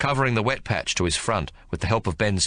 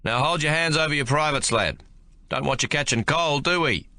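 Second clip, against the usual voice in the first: calm sergeant; 7 semitones higher than usual. Acted. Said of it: "Ben's voice is perfectly calm".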